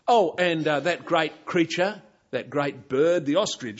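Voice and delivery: mock him lightly; sarcastic. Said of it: "tone of sarcasm".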